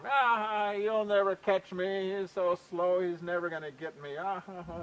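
laughing at him. Acted. Cougar taunts Skunk from atop the cliff, laughing at him. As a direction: jeer in a singsong, with mock laughter. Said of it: "laughing at him".

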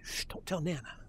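soft conspiratorial shush; acting a grandpa keeping it from grandma; hushed secret. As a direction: drop to a hush, just between us. Grandpa secretly slipping a credit card.

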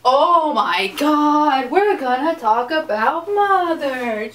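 slow, drawn-out exasperated groan of words. Real, not acted. Vlogger fed up with men's remarks, slow exasperated drawl. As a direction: stretch it out, fed up.

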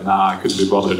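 lightly put-on Australian accent, low and offhand; a hint of a lazy Australian bloke; Australian drawl. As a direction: toss off "Nah, I couldn't be bothered" like a laid-back Australian. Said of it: "That's what they say in Australia".

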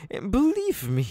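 whispered lead-in to a threat; whispered warning to the prisoner; menacing whisper. Acted. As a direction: lean in and whisper. Villain threatening a bound captive.

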